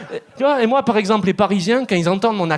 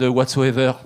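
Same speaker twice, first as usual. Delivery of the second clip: put-on French accent in English; 6 semitones lower than usual. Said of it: "with the accent".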